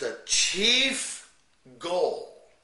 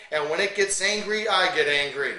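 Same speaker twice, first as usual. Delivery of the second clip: angry; 2 semitones higher, 5 dB louder than usual. Shown as a demonstration. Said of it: "you notice how I adjust to the passages".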